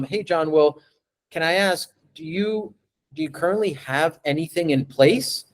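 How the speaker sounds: gentle, interested question to the client; curious tone. Shown as a demonstration. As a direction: ask like you really want to know. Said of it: "the tone of my voice is curious".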